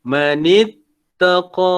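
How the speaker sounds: اتَّقَى ends on a vowel held two counts; two-count final vowel. Shown as a demonstration. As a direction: hold the last vowel of اتَّقَى. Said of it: "dua harakat".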